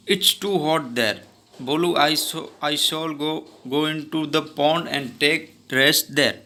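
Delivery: slow, clear read-aloud of the story dialogue. Acted. Teacher reading the story's English lines to her class, slow and deliberate. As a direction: read each English word slowly for the class.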